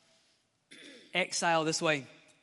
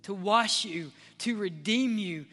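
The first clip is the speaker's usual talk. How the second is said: God answering. Pretend. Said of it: "heaven always responds".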